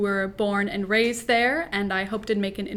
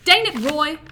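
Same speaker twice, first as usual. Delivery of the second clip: Southern mama shouting higher and louder across the house; 6 semitones higher, 8 dB louder than usual. Acted. Mama scolds daddy from the kitchen, a loud Southern shout. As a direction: holler it from the kitchen in a Southern accent. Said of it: "my mama shouts from the kitchen".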